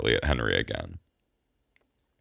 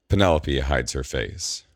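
plain reading voice

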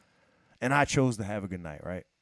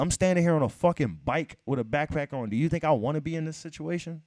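acted, insistent appeal, pitched up at the end; pleading sob story; 3 semitones higher than usual. Customer on a bike begging at the window, pleading. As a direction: plead your case with mock exasperation. Acts out begging with hungry-kids lie.

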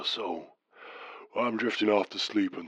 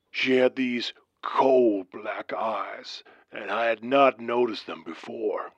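slow, hushed spooky whisper; creepy whisper. Acted. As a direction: breathe it out with dread. Describing cold black eyes.

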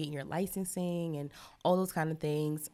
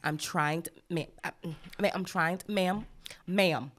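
strict. Retold or imitated. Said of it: "I have to be real strict with them".

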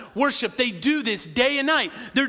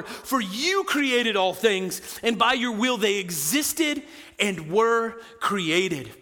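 slow emphatic reading; slower than usual. Shown as a demonstration. Preacher savouring the verse, slow and weighty. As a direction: read it slow and weighty, savouring each word. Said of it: "I love this last phrase".

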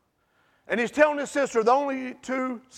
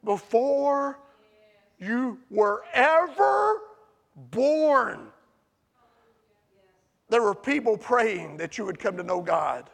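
gentle testimony; 2 semitones lower, slower than usual. Retold or imitated. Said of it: "will say".

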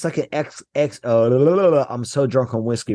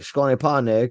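deadpan Cajun reply. Retold or imitated. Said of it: "I'm like".

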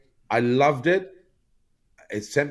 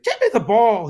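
high, loud retold shout; mock angry shout; 12 semitones higher, 8 dB louder than usual. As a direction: bark the order like a furious veteran. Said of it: "he's like".

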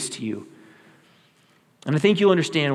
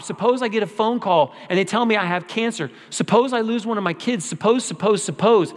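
higher and more urgent with each suppose; building worry; 5 semitones higher than usual. Acted. Pastor voices the church's anxious what-ifs, building. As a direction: pile the fears up higher and higher. Listing fearful suppositions, escalating.

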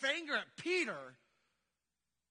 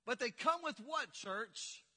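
call and response prompt. Real, not acted. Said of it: "two of us said that".

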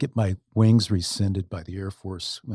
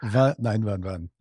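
mock German accent; slower than usual. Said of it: "and with a German accent".

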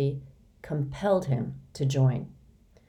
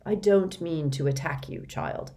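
gentle. Acted. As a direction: speak it gently to a child. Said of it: "Mister Benedict said gently".

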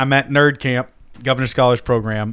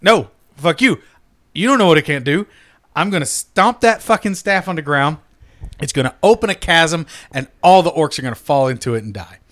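mock-defiant boast, pitched up; defiant retort; 3 dB louder than usual. Player defying the game master over his staff, defiant. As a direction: argue back with cocky insistence.

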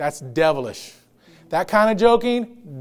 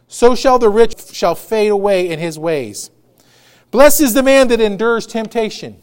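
loud, measured Bible reading; preacher reading scripture aloud from the pulpit; 4 dB louder than usual. Acted. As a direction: proclaim the verses to the congregation. Reads the verses aloud.

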